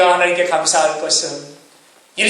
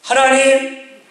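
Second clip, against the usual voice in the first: pleading prayer; 3 semitones higher than usual. Retold or imitated. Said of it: "하나님께 이렇게 기도한 자가 있었을 겁니다".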